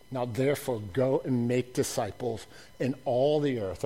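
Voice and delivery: hushed reflective repeat; soft restatement. Acted. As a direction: say it quietly, almost to yourself. Same commission, said softly.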